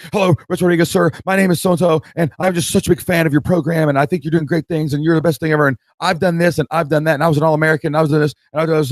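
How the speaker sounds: put-on high, rushed nervous kid pitch; eager job seeker. Young applicant pitching the coach at the urinal, eager and breathless. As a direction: gush it all out like a starstruck young applicant. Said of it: "he goes".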